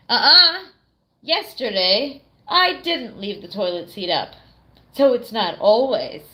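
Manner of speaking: defensive denial. Retold or imitated. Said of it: "he'll be like".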